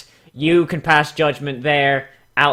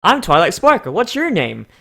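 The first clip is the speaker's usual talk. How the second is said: Twilight Sparkle voice; 4 semitones higher than usual. Acted. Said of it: "says the purple alicorn".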